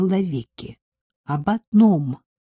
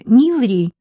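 higher, louder scolding; reproachful; 5 semitones higher, 7 dB louder than usual. Acted. Henrietta scolding her teacher, reproachful and louder. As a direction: tell her off playfully. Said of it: "укорила Генриетта".

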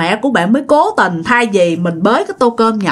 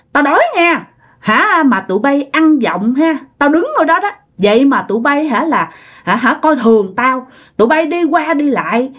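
lightly voiced angry spirit demanding food; possessed fierce voice; 3 semitones higher than usual. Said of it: "không phải là giọng cô Út nữa". (giọng ma nhập hung dữ, nhẹ)

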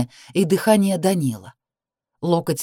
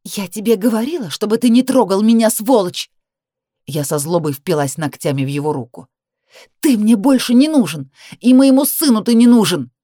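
higher, louder furious shouting; furious scream; 4 semitones higher, 5 dB louder than usual. Acted. Woman fights her ex, higher and louder scream.

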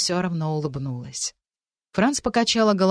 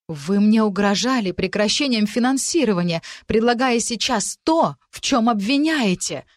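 snapping back; 4 semitones higher, 3 dB louder than usual. Acted. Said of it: "сорвалась Франц".

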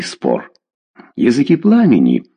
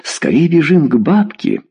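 urgent exclamation; 7 semitones higher than usual. Acted. Father urging wife to run to the old woman, urgent. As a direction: exclaim it with sudden resolve.

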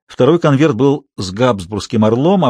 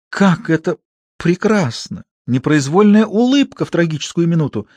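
delighted actress; 5 semitones higher than usual. Acted. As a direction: swoon over the idea.

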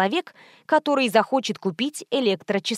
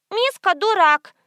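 put-on high squeaky little-girl voice; little girl insulting her brother; squeaky child; 9 semitones higher, 4 dB louder, slower than usual. A narrator's reading. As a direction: squeak it like a small kid. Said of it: "пропищала малышка".

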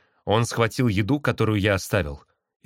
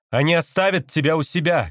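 mild cry with raised pitch; calling out; 6 semitones higher than usual. A narrator's reading. Brother bird explains to caged sister, calling out. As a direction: call the news across to her. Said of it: "крикнул я".

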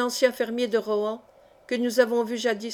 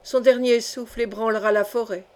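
a touch of weight on "son dernier souffle ébranlera la forêt"; mildly solemn prophecy; lightly emphatic. A narrator's reading. Jocelyn warns the young wolves, mildly solemn. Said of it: "prononça Jocelyn Guitant avec emphase".

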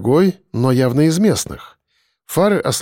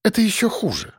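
put-on high, disgusted girl voice; squeamish; 7 semitones higher, 4 dB quieter than usual. A narrator's reading. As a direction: sound even more revolted. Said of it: "морщась ещё сильнее".

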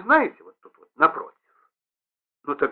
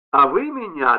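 ordinary delivery, nothing marked

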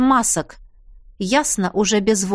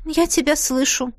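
sigh; 4 semitones higher than usual. Acted. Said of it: "вздохнула я".

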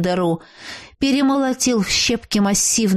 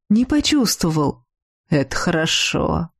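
almost tender; 3 semitones lower than usual. Acted. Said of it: "почти ласково спросил Василиск".

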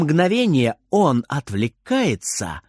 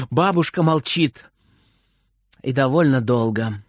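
ordinary delivery

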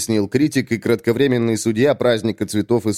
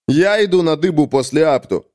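higher, insistent claim; stubborn; 6 semitones higher than usual. Acted. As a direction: dig in and insist on your turn. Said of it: "упрямо сказал Комар". (упрямо настаивать на своём)

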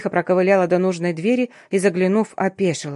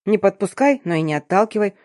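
annoyed, sharp hissed repeat; mock the advice with irritation; irritated hiss. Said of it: "раздражённо прошипела".

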